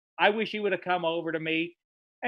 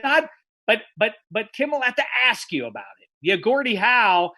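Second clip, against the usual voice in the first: heated confrontation; 4 semitones higher, 4 dB louder than usual. Retold or imitated. Confronting Gretzky in green room.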